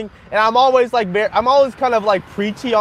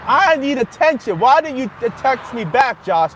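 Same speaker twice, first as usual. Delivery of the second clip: slow, higher whiny mimicry of her; mock needy date; 4 semitones higher than usual. Mocking the date who texts him, slow and higher whining. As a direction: drag it out like a clingy girl begging for attention. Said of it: "then she was like".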